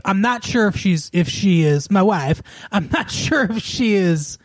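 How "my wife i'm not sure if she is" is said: quick put-on catchphrase voice; catchphrase impression. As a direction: lightly parody a famous catchphrase. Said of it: "that's the only one I do".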